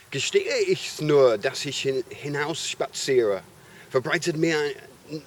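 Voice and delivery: dramatic German recital, trading the two parts; a reader voicing Mephistopheles and Faust in turn, theatrical; devil and Faust voiced. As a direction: read it as a stage scene, playing both the devil and Faust. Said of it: "and I'll try both parts".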